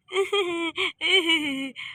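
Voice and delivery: drawn-out coy giggle. Acted. Giggles between bits of song.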